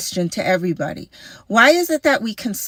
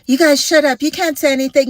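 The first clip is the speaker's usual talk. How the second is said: mocking dismissive critic; 8 semitones higher, 5 dB louder, faster than usual. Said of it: "you have to be a doctor".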